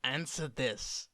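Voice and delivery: playful growling sphinx voice. Acted. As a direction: purr it out like a teasing sphinx cat. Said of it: "do your best Sphinx voice".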